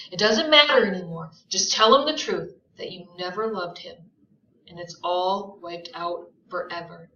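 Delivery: urgent, insistent plea; pleading Gatsby. Acted. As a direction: press her hard to confess. Gatsby voiced in reading.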